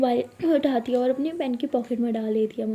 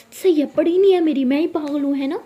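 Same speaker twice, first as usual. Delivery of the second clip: sulky drama; 4 semitones higher, 6 dB louder than usual. Acted. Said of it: "ये लड़की कितना drama करती है".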